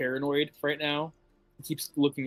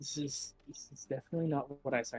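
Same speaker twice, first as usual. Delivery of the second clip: hushed whisper, much quieter; 10 dB quieter than usual. A character leans over to a companion and speaks, whispering. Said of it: "he leans over and whispers to Khan".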